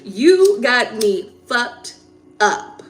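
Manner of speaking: slow, stretched and laughing; half-laughing replay of the comeback; laughing through it. Real, not acted. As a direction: laugh while repeating the line.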